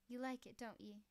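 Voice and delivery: put-on a light, teasing hick Hambry accent; lightly put-on Hambry country accent. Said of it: "putting on a hick Hambry accent".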